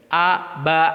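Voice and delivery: short crisp A, ba; one beat per syllable; short correct syllables. Shown as a demonstration. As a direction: demo of the right short reading. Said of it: "itu betul".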